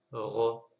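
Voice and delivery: ro: r suivi d'un o; wrong vowel take. Shown as a demonstration. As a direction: montrer la voyelle à éviter. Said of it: "On ne cherche pas à dire". (r avec voyelle, à ne pas faire)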